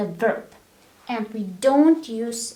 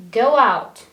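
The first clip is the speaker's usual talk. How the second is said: loud, curt command; rude order; 7 dB louder than usual. Shown as a demonstration. Teacher shows how a rude command sounds. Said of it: "It's a bit rude".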